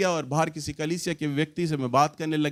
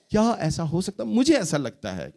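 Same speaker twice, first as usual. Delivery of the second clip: gentle suggestion. Shown as a demonstration. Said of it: "ये नहीं".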